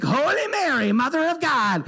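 mock-loud, high-pitched prayer. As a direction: chant it high, like teasing kids. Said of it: "they'd start praying louder".

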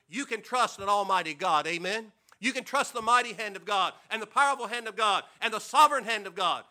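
declared loud and strong; loud preaching declaration. Real, not acted. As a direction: hammer each phrase home to the pews. Rising preaching declaration to congregation.

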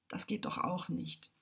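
slow, secret whisper; whispered, as if only to himself. A narrator's reading. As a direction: whisper it like a forbidden thought. Quiet rebellious thought.

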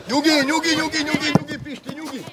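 rapid soothing repeats, fading away; calming reassurance. Real, not acted. Coach calming Pisti during play, soothing reassurance.

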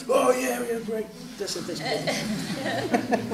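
quiet words broken by laughter; laughing approval. Retold or imitated. Kids approving the drawing, laughing softly. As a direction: chuckle through it, pleased.

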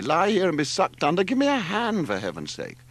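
high, exasperated snarl. A narrator's reading. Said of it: "snarled Larry".

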